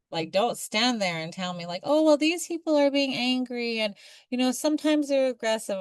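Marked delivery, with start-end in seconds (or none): 1.8-5.8 mock dismissive critic. Mocking critics of angry natives.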